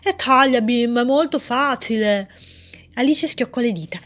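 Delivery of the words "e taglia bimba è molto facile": teasing voice. Acted. Voice teasing Alice.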